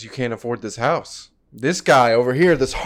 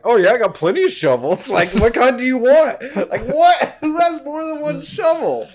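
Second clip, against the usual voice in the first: imitating Jamel; 10 semitones higher than usual. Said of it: "how Jamel was like".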